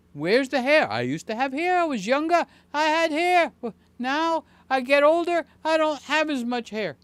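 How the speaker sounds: put-on kvetching New York Jewish accent about lost hair. Joking to viewers about Norm's baldness, New York Jewish accent. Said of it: "Do I sound like a New York Jew?".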